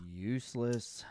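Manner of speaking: whispered word while writing; whispering. Real, not acted. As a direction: whisper it under your breath. Writing the useless weapons list.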